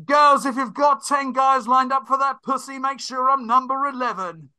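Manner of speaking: loud, high hype-man shout; Westwood DJ shout. Retold or imitated. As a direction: bellow it like a club DJ on the mic. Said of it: "stuff like".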